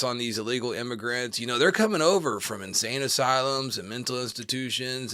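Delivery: lightly voiced campaign-speech impression; a hint of a politician holding forth, in your own voice; half-committed Trump answer with emphatic openings; Donald Trump. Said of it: "I should get a Trump impression".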